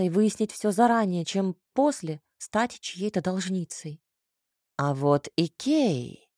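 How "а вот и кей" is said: exclaiming. A narrator's reading. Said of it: "воскликнул Ваур".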